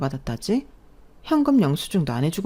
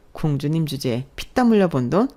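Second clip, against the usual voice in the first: scornful repeat with 피땀 lifted into a sneering rise; mock her words with a rising 피땀; mocking echo. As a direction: throw 피땀 back at her as a joke. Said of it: "우습다, 우스워".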